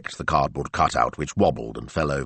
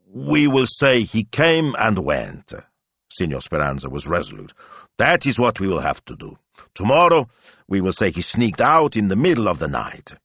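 put-on resolute old Italian; 4 semitones higher than usual. Speranza gives firm plan.

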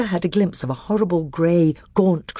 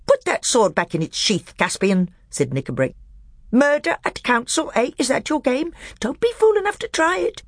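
high dwarf voice, sneering and defiant; high, scornful dwarf; 10 semitones higher than usual. Acted. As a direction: taunt the king over his sword.

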